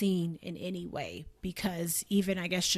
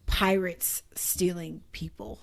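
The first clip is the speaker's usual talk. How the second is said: whisper; 3 semitones lower, slower than usual. Real, not acted. Awed aside.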